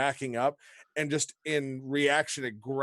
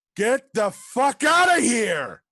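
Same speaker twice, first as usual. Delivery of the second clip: very loud, very high, shrill, swooping yell; 9 semitones higher, 10 dB louder than usual. Voicing a hooded archer who yells at everyone in the room: yelling. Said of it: "you can tell she is going to yell out".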